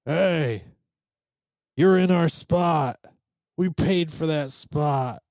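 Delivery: a stranger claiming her rights; belligerent camper lady. Retold or imitated. Woman outside the tent demanding the campsite, indignant. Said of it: "I hear this woman's voice".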